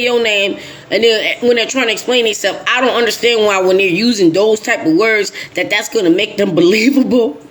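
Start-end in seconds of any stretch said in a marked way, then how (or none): none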